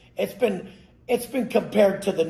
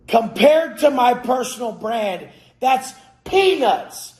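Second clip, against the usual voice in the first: higher, slow dismissive drawl; scoffing; 8 semitones higher, 3 dB louder, slower than usual. Real, not acted. Dismissing fund returns with a slow, higher scoff. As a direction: brush it off as nothing.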